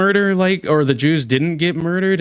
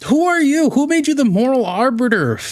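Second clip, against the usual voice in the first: incredulous outburst; 11 semitones higher, 3 dB louder than usual. Real, not acted. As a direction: shoot way up in pitch and louder, stunned. Outraged at the other caller.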